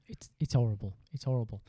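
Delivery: whispered, grave; hushed whisper. Real, not acted. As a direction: breathe it out, grave. Agreeing the virus is dangerous.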